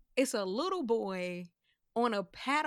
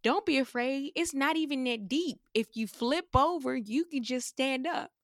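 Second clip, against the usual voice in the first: put-on higher, louder child's reassurance; lightly voiced little boy; 4 semitones higher, 5 dB louder than usual. Imitating boy on paddle board, higher-pitched reassurance. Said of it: "just a little white boy".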